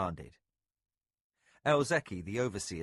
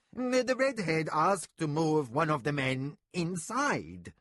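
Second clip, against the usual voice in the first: slow, stammering servant; nervous stammer; 5 semitones higher, 4 dB louder than usual. A narrator's reading. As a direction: stumble nervously over the words.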